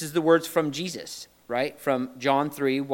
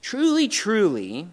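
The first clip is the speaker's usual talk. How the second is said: Jesus insisting. Retold or imitated. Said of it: "Look, listen".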